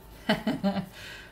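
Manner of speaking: short breathy run of chuckles. Real, not acted. Reader chuckling to herself over the cards, amused chuckle.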